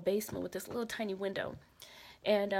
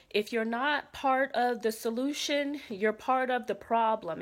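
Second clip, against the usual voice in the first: mock bullhorn announcement; 2 semitones higher, 5 dB louder than usual. Soldier shouting through a bullhorn.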